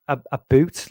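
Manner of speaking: loud Canadian "a boot", a bit Scottish; Canadian accent. Shown as a demonstration. Checking how Canadians say about, Canadian accent. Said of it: "did they say, like".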